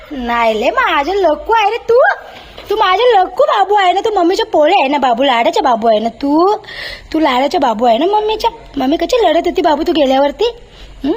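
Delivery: cooing pet talk; mother making up with her dog Lucky. Real, not acted. Cooing to the dog after scolding.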